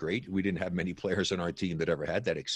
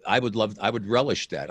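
uneven volume; 6 dB louder than usual. Real, not acted. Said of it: "the input keeps switching in the middle".

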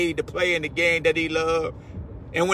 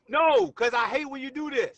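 half-joking shout; 4 semitones higher, 4 dB quieter than usual. Real, not acted. Arguing with co-host.

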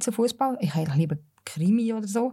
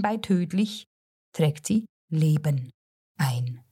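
measured, rhythmic reading of comic verse; wry storyteller's poetry reading, line by line; poem recitation; slower than usual. Acted. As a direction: recite rhyming verse with deliberate pauses. Recites her humorous summer poem.

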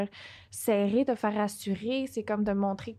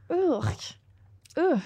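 disgusted groan; 5 semitones higher than usual. Real, not acted. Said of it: "Pourquoi ça t'écoeure?".

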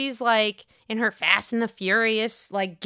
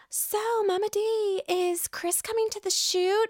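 mock Mia; 9 semitones higher, 4 dB quieter than usual. Mia asking Mama Dorothy about Chris, high mock voice. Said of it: "is asking Mama Dorothy".

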